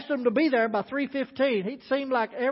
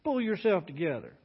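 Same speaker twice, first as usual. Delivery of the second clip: gentle coaxing; 3 dB quieter than usual. Acted. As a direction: ease her out of her tears. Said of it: "being that kind, gentle man he was".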